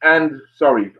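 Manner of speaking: dry-mouthed apology. Real, not acted. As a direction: talk through a dry mouth. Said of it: "I'm getting a bit dry mouth".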